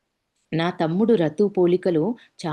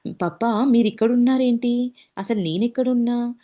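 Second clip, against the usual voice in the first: startled surprise; 5 semitones higher than usual. Retold or imitated. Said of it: "అని నాతో మళ్ళీ".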